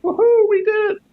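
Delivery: high, breathless whoop of victory; excited cheer. Acted. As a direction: cheer like you just won. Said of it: "all look like panting, like".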